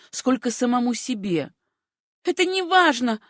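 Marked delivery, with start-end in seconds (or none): 2.2-3.2 deadened voice. A narrator's reading. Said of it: "ответила она омертвевшим голосом".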